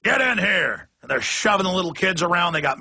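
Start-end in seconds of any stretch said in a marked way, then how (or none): 0.1-0.9 barking cop. Retold or imitated. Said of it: "and the cop goes".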